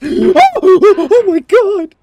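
high, slowed, laughing oh my god; real startled laughter; laughing gasp. Real, not acted. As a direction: laugh out the shock. Gasping laugh at a near fall.

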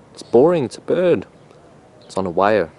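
put-on lilting, accidental Scottish accent. Bird narrator drifting unprompted into a Scottish accent. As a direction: slip into a Scottish lilt. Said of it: "I just got a Scottish accent".

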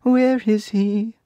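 high, slow bird voice; stork voice. A narrator's reading. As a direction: tell them plainly like a stork. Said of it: "asked the stork".

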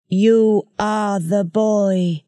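slow, soft alien ruler with a cotton-wool throat; lightly voiced eerie creature, slow. A narrator's reading. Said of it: "The voice was soft".

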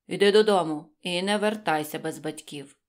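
stern teacher. A narrator's reading. Teacher scolding the late hare, stern and loud. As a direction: send the pupil home firmly. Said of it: "А вчитель каже".

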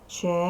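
ЧЕР-НЕТ drawn out syllable by syllable; читання по складах. Shown as a demonstration. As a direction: read "Чернет" slowly in two separate syllables. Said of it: "Читаємо". ("Чернет" повільно, по складах)

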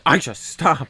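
teasing copy of a put-on voice; friend's silly voice. Host mimicking friend's voice from yesterday, high and silly. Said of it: "that voice you were doing yesterday".

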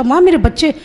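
loud call. Retold or imitated. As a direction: call "माँ मेरे बच्चे" out loud to the Mother. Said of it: "फिर मैंने बहुत ज़ोर से पूछा". (ज़ोर से पुकार कर पूछना)

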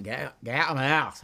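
put-on trying out a Cockney accent; Cockney attempt. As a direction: copy the Cockney line, a little unsure. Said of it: "practicing your Cockney accent".

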